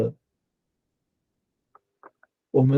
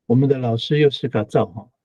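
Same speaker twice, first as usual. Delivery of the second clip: normal talking voice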